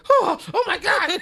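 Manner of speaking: high, loud, slow, hammed-up moan; mocking a TikTok moan, high and drawn out.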